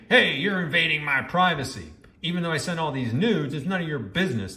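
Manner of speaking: mildly mocking blame-shifter, quickening at the end; mock indignation. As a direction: mimic a defensive objection, speeding up. Mimicking Kendra passing the blame.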